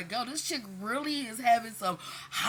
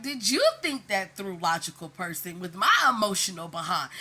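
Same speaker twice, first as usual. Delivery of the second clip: sassy comeback; 6 dB louder than usual. Retold or imitated. Snapping back at people who annoy.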